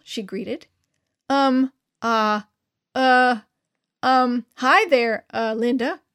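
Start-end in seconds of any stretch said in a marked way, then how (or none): 1.3-6.0 nervous, loud stammer; stuttering. A narrator's reading. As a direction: trip over every word, flustered. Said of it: "I stuttered".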